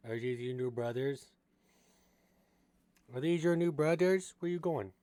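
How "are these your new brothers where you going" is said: pet talk. Real, not acted. Owner cooing at her pet rat about his new brothers.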